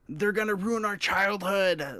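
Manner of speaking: high, slow whiny fanboy voice. Retold or imitated. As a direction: whine it like an upset fanboy. Mocking fanboys' complaints.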